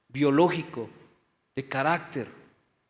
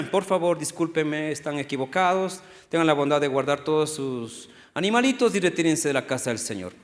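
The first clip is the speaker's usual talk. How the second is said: mock polite Jesus; 4 semitones lower, 5 dB quieter than usual. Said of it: "¿Así reaccionó Jesús?".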